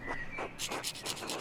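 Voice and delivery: breathy, quiet laugh; tickled, voiceless chuckle; soft wheezy laughing. Real, not acted. Laughing at the game's dialogue.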